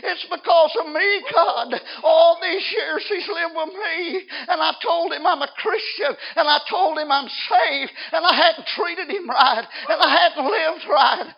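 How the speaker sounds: loud, high, anguished wail to God; acted crying out. Wife pleads for her lost husband, acted anguished crying. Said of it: "and she's crying".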